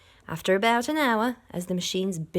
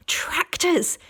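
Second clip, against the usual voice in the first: higher, louder warning shout; alarmed shout; 10 semitones higher, 6 dB louder than usual. A narrator's reading. Mister Fox shouting a warning to his family. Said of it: "shouted Mister Fox".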